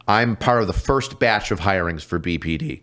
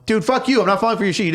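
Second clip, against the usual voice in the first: mock angry retort; 10 semitones higher, faster than usual. Refusing the prank call.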